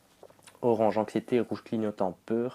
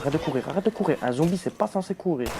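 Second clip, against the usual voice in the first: panicked yelling; 7 semitones higher, 4 dB louder than usual. Real, not acted. Zombie chasing, yelling at it.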